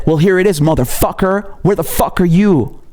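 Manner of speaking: heated taunt at the critics; real anger. Real, not acted. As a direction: call them out, daring them to show up. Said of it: "Here's the same anger".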